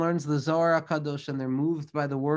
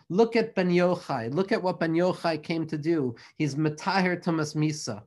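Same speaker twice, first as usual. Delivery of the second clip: mild sarcasm. Retold or imitated. Old man mocking Rabbi Shimon, lightly sarcastic. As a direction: lightly sneer at Ben Yochai. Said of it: "He says it sarcastically".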